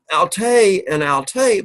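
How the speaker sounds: "alte and alte" said slowly, each "alte" with its own accent; teacher contrasting the two "alte" for students, slow and careful; accent contrast demo. Shown as a demonstration. Teacher shows class the accent difference, slow careful Greek. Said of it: "but notice the difference".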